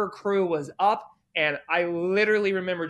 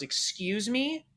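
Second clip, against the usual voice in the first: offended excuse me; 4 semitones higher, 6 dB quieter, slower than usual. Retold or imitated. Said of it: "didn't take kindly to that".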